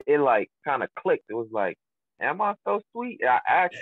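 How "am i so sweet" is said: high-pitched, rising playful quote; retold question. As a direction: act out asking her, pitched well up. Retold question to a lady friend.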